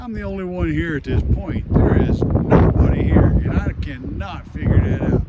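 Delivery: calling out over roaring wind; shouting over wind. Real, not acted. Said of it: "I don't know if you can hear me over this wind".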